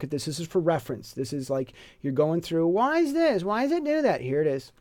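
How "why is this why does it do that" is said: puzzled student. Retold or imitated. Student puzzling over spelling.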